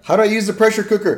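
quoting voice. Retold or imitated. Retelling a quote.

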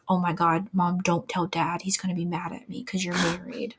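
quoting her son in a hushed secret whisper, fading to breath; whispering child. Retold or imitated. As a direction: let it sink to a worried child's whisper.

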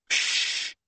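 urgent unvoiced shush; desperate shush. A narrator's reading. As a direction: hush him desperately. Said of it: "said Hermione desperately".

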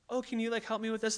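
a hint of his wife asking nicely; all nicely. Imitating Corinne asking him nicely for help. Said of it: "like, all nicely".

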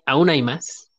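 slow, drawn-out TV salesman pitch; over eager infomercial. Pretend. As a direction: stretch it like a late-night ad. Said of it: "como infomercial".

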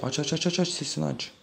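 excited urging. Retold or imitated. Urging himself to turn music up.

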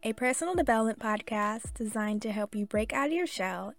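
rushed intro on a single breath; all in one breath. Real, not acted. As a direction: say the whole intro without breathing. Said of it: "I did that all in one breath".

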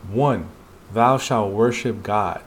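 measured, solemn recital; slow solemn reading. Acted. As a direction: read each commandment slowly and gravely. Reading commandments in the manhwa.

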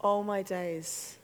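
low, slow, dropping to a whisper; hushed awe. Shown as a demonstration. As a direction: breathe it out, stunned by God. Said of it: "It feels like this".

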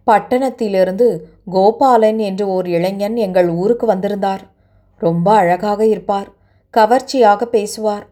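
lightly voiced young woman, sorrowful and subdued; distressed young woman. Girl tells her sad story.

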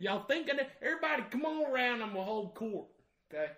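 hammed-up Southern redneck, loud and high-pitched; Southern redneck accent. Showing off his Southern accent at a Minnesota party, loud and hammed-up. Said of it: "he's doing it".

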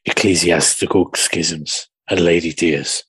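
low, breathy perfume advert voice; sultry perfume ad. Pretend. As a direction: purr it like a fragrance commercial. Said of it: "making shit perfume commercials".

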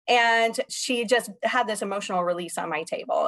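ordinary talk

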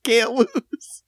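rally the team like a pep-talk speaker; booming motivational speech. Retold or imitated. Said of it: "He sounded like a motivational speaker".

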